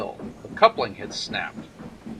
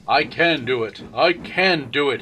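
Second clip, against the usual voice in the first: puffing effort; 3 semitones higher, 6 dB louder than usual. Acted. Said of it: "he puffed".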